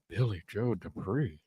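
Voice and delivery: slow, hushed aside; mock whisper. Hank whispers a name to Peggy, mock whisper. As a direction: say it softly and slowly, like a whispered secret. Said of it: "Hank whispers to Peggy".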